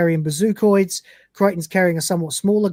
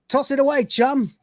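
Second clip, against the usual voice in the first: heroic urging; 8 semitones higher than usual. Acted. Ace urges Dwayne.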